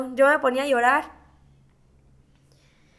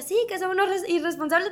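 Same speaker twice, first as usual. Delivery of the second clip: higher-pitched mild reproach; retold scolding; 6 semitones higher, faster than usual. Doctor reproaching the patient's family, retold scolding. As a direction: imitate someone telling a family off. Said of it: "el doctor empezó a alegarnos porque decía".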